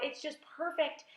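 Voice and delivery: high, pleased exclamation; delighted cry. A narrator's reading. Aunt admires the ripe peach, delighted cry. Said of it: "she cried".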